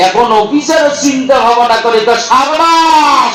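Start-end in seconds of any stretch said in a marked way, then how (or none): 2.3-3.4 slow, stretched সারবাস in place of শাবাশ; mock bravo. Officer praising the rustic answer, slowly drawn out.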